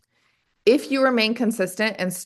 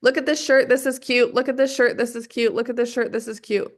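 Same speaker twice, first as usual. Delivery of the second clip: mock influencer; 3 semitones higher than usual. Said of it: "if they were to just do the unboxing and say".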